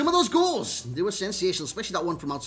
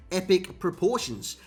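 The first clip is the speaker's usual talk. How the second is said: "epic proportions" spaced out slowly, each syllable careful; slower than usual. Shown as a demonstration. Youtuber slowing down to nail "epic proportions". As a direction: take "epic proportions" slowly so it comes out right. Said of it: "I'll say this slowly so I get it right".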